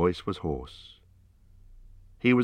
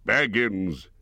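glad, surprised shout of the name; exclaiming; 3 semitones higher than usual. A narrator's reading. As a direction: cry out the name in relief. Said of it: "he exclaimed".

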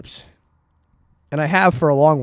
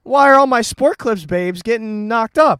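loud, high, outraged disbelief; what the hell, louder; exasperated disbelief; 8 semitones higher, 5 dB louder, slower than usual. Real, not acted. Shock at second pregnant barber.

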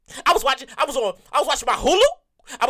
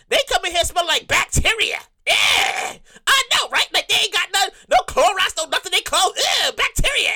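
gossiping worker; 4 semitones higher than usual. Retold or imitated. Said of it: "the exact conversation went like this".

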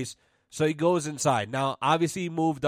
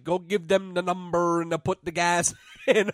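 put-on Dutch accent; 3 semitones higher than usual. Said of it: "Dutch Holland accent".

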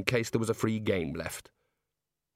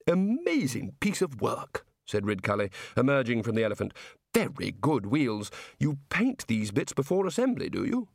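Arch-Chancellor Ridcully. Acted. Ridcully speaks.

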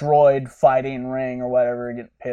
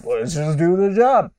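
rising fast and high, squeaking up to a peak; mock-frantic pitch swinging up high; excited pitch climb; 7 semitones higher, 3 dB louder than usual. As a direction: blurt it out faster and faster, higher and higher. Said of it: "He's like".

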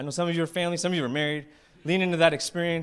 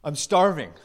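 loudmouth Peter; 6 dB louder than usual. Acted. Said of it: "He's the loudmouth".

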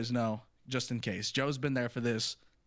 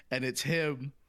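laughing; 5 semitones higher, 8 dB louder, much slower than usual. Real, not acted. Laughing while telling gun story.

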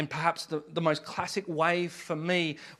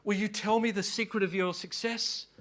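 pleading starving worm; 3 semitones higher, 3 dB quieter than usual. Acted. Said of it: "calls out to the worm".

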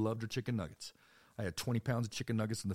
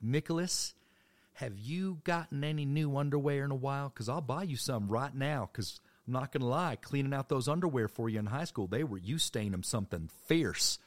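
loud, high nagging grandma; 7 semitones higher, 7 dB louder than usual. Retold or imitated. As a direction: call out like a pushy grandma across the store. Grandma voiced in a story.

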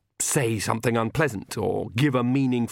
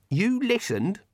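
high, sharp accusing question; suspicious old witch; 10 semitones higher, slower than usual. A narrator's reading. Granny accusing.

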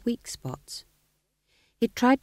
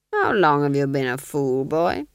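louder, clipped aristocratic command; cold Duke; 2 semitones lower, 4 dB louder than usual. Acted. Duke dismissing the sergeant: louder cold command. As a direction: dismiss him like a bored lord.

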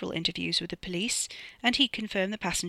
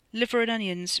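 talking through a mouthful; words round a bite of food; mouth full; 4 semitones higher than usual. Acted. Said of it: "Ricky said with his mouth full".

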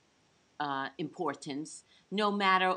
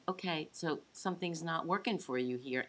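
soothing; 4 dB quieter than usual. Retold or imitated. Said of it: "we say something soothing like".

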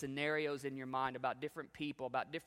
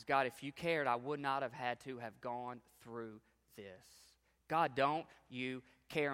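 frustrated demand. Retold or imitated. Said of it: "out of frustration".

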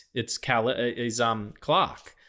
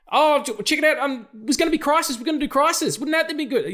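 much higher, louder smarmy studio exec pitch; mock studio spin; 14 semitones higher, 3 dB louder than usual. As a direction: sell the news like a sleazy PR man. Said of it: "Everyone's like".

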